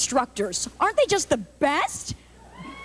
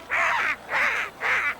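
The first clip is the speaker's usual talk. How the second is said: softer high caws; pigeon caws; 8 semitones higher, 4 dB quieter, much slower than usual. Retold or imitated. Chicago pigeon calling as it leads, soft high caws. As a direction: trail off into quiet squawks. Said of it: "They're like".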